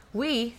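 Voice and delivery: "we" set apart with pauses; stress on WE. Real, not acted. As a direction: lean on the word "we" and let it hang. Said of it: "making emphasis on the word we".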